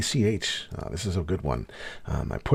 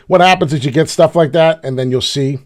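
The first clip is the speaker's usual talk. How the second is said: ordinary talk, nothing marked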